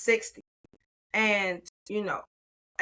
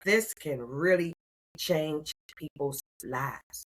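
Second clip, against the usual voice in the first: slow, awed; 3 semitones lower, slower than usual. Retold or imitated. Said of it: "I was like".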